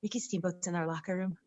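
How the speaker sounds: put-on hushed, giddy teen whisper; lovesick whisper. Two lovesick girls gossiping about Steamboat, hushed and giddy. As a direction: whisper it like a starstruck teenager. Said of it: "like two lovesick little teenagers going".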